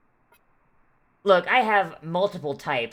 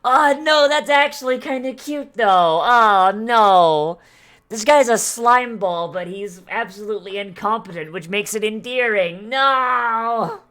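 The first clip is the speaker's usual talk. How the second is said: high, loud gushing squeals; excited squealing; 5 semitones higher, 8 dB louder, slower than usual. Real, not acted. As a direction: squeal over something adorable. Gushing over a clumsy cute guy.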